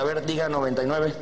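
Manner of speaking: low, routine doctor's instruction; understated doctor at work. Acted. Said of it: "Se lo pone en la espalda".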